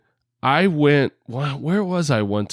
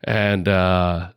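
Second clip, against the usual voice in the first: tongue-in-cheek solemn regret; mock formal apology; 2 semitones lower than usual. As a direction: read a stiff public apology in jest.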